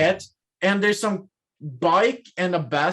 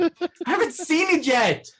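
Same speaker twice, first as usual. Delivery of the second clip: exclaiming; 8 semitones higher than usual. Pretend. Upset about movie spoilers.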